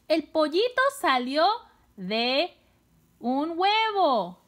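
high, lively announcement of a new idea; upbeat teacher delivering the answer; excited whole sentence. Shown as a demonstration. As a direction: say the sentence in connected phrases, excitedly. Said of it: "¿Cuántas palabras son?".

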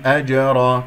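أجرا recited firmly, each letter sounded; tajweed demonstration. Shown as a demonstration. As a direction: recite أجرا clearly with a bounced j. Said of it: "كما سمعتم ميم مظهرة".

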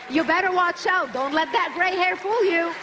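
a jokey threat to the audience about her age; playful mock warning. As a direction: wag a finger at the crowd in jest. Joking aside to audience.

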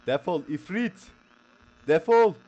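slow, high, loud banishing cry; yelling at the ghoul to be gone; exorcist shout. Acted. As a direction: cast the demon out with a roar.

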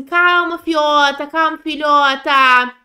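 calma filhota drawn out, soothing; calm the anxious pet slowly. Acted. To the anxious character, a slow soothing calma. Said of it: "Vou falar assim".

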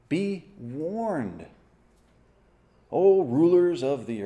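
slow, weighty reading of the psalm with long pauses; solemn scripture reading. Acted. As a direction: lay each phrase down like a warning to kings. Reads Psalm 2 verses.

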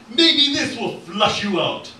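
high, loud, drawn-out taunt; yelling. Acted. Jack flushing out a hidden foe, yelling. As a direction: yell it across the hall. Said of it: "lit it, and yelled".

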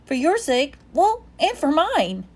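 high, gentle coaxing dog voice. A narrator's reading. Bob begging Ivan to sleep, high and gentle. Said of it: "Bob says gently".

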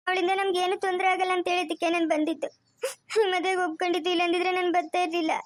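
mildly weepy pleading; tearful. Acted. Deceived woman defending why she agreed to marry, tearfully. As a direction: explain yourself through held-back tears. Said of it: "ತಿರ್ಗಾ ಅಳ್ತಾ ಇದ್ಯಾ".

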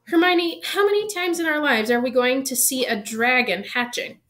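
high, loud exasperated appeal; excited pleading. Acted. Ron pleading with Hermione to skip class.

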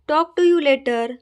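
drawn-out teaching read; slow, careful model reading. Shown as a demonstration. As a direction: say it slowly for learners to copy. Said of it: "teacher models the phrase".

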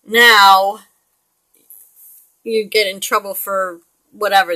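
ordinary talk

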